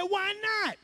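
high, astonished question; surprised chicken. Acted. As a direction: ask it like a startled chicken. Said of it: "he was surprised".

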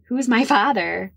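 repeated question. Retold or imitated.

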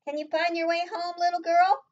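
high, lifted questioning lady; fruit lady's voice. A narrator's reading. Fruit lady asking little Hazel, high-pitched questioning. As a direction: ask a child in a high, rising voice. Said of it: "first fruit lady".

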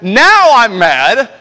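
loud, high, slowed mock anger; mock mad. Preacher showing his daughter what yelling sounds like, mock angry roar. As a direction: put on a pretend angry roar. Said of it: "something about me yelling when I preach".

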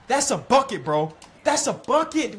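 high, loud exasperated insisting; annoyed outburst. Real, not acted. Gamer still fuming at the missed chance, loud exasperation. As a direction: vent that it should have scored.

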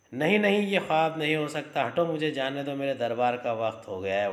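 panicked refusal to believe it; crying out. Acted. Son retelling the dream, cries out in panic. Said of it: "चिल्लाने लगता है".

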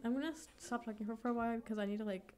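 breathless, catching her breath. Real, not acted. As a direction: talk while winded. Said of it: "I'm, like, out of breath".

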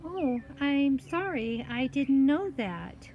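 put-on high, slow, sorry little girl; apologetic girl. Girl says sorry to the cat, sheepish.

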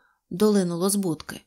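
ordinary delivery, nothing marked

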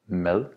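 "Mad" with a soft D, like English th; soft Danish D. Shown as a demonstration. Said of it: "Notice that both".

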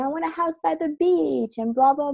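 high, singsong mocking of her old self; airy, teasing parody of her own daydream; mock dreamy wish. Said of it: "I was talking about how".

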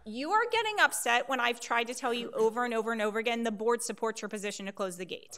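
fast, exasperated insistence; getting upset. Real, not acted. Official rebuking a resident over the gate, getting upset. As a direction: push the point through quickly, fed up. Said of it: "Are you getting upset now?".

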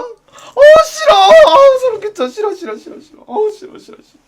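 loud, high shrieks of disgust that fade to a whimper; disgusted shout. Acted. 싫어, 소름 끼쳐 — shrieking at an unwanted suitor in disgust. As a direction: recoil as if from something creepy.

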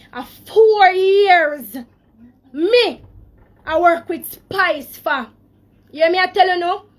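fighting tears on each word; holding back tears. Real, not acted. Woman on a live stream recalling four years with a singer, voice breaking. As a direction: voice catching on the years, slowed right down. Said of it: "I'm gonna try not to cry".

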